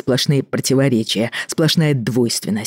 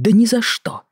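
whispered mock refusal, pitched higher; 8 semitones higher than usual. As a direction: hiss her "no" back at her mockingly. Mocking her refusal in a whisper. (передразнивающий шёпот)

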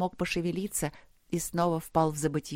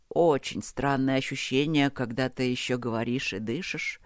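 lower, weary voice of a trapped man; delirious half-prayer; 3 semitones lower than usual. Acted. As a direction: talk to the dark, half mad and exhausted. Trapped man talks to darkness. (бредовая полумолитва, тихо и устало)

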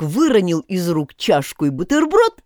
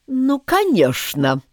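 slow, strict king; stern; 8 semitones higher, slower than usual. A narrator's reading. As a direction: say it sternly and slowly. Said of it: "сказал король строго". (строго, медленно)

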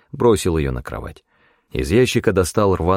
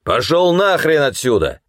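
angry shout; 8 semitones higher, 3 dB louder than usual. A narrator's reading. Guard chasing him off.

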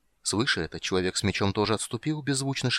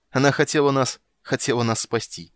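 agitated outburst; 4 semitones higher, 5 dB louder than usual. A narrator's reading. Sorcerer speaks with emotion.

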